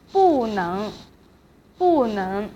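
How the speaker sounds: 不 falling, then 能 rising; fourth tone on 不. Shown as a demonstration. Teacher showing 不 before a second tone, falling tone on 不. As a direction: drop 不 and lift 能. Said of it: "pronounced in fourth tone".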